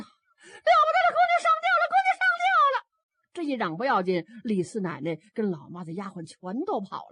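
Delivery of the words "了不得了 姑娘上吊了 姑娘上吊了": very high, loud shrill alarm cries; a maid calling the household for help; voice-cracking panic. Acted. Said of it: "丫鬟都岔了音儿了". (丫鬟岔了音的惊叫)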